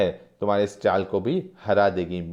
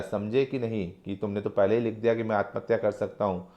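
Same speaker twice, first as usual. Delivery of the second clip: low, softer menacing taunt; a quiet, cold threat; understated wolfish menace; 3 semitones lower, 4 dB quieter than usual. Acted. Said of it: "हंसता हुआ खूनी भेड़िए सी नज़र टिका कर कहता है".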